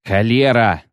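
mildly barked oath; barked curse. A narrator's reading. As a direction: bark it out in frustration, without shouting. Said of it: "рявкнул Русти".

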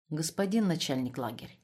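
softly, firmly addressed; quiet but firm. Acted. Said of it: "сказал он тихо, но твёрдо". (тихо, но твёрдо)

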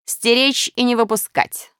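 mildly imperious storybook command. A narrator's reading. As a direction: give the guards a firm order. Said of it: "скомандовал Минус гусям".

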